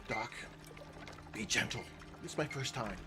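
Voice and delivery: lightly put-on comic impression, low-key; Jim Carrey. Patient to doctor on the table, lightly imitating a comedian. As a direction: deliver a mock plea with short pauses. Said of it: "best Jim Carrey impression".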